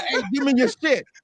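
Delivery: blunt street robber voice. Acting out what a street robber says: imitating a robber. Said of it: "a nigga gonna come and".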